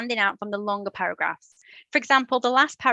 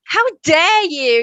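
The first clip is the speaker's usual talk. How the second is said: mock outraged shout; 7 semitones higher, 9 dB louder, slower than usual. Who shouted that?.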